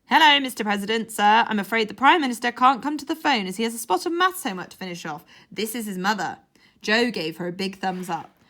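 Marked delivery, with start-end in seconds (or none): 0.1-6.4 posh phone voice. Pretend. Mum pretends to be mother on phone.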